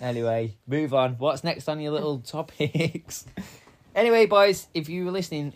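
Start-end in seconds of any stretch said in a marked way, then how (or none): 0.0-0.6 laughing. Real, not acted. Laughing mid-story.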